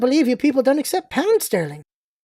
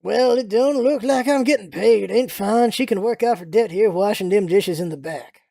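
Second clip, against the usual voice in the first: Southern American proprietor; 2 semitones lower than usual. Acted. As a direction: lay down terms as a Southerner.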